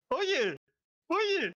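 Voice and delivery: normal talking voice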